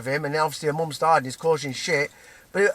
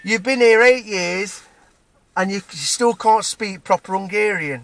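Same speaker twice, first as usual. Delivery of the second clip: raised, drawn-out mock shout; retold shouting; 4 semitones higher, 4 dB louder, slower than usual. Man taunting an immigrant about language, moderately shouted imitation. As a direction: imitate him yelling an accusation, slowly and loudly. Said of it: "then starts shouting out".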